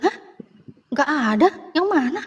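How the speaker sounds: high, startled questions from a caught-off-guard father; imitating dad's shocked disbelief; surprised father. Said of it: "kata papaku gitu".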